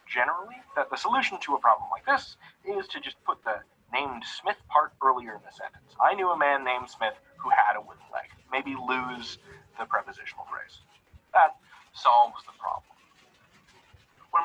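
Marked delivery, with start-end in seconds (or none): 6.0-8.3 Cockney accent. Shown as a demonstration. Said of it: "Sorry for the terrible Cockney accent".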